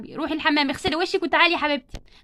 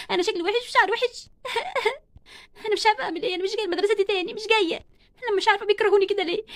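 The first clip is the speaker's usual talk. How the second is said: tearful, fast and pitched up; bullied girl crying to herself, a little higher; 4 semitones higher than usual. Acted. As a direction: sob out the words, rushing.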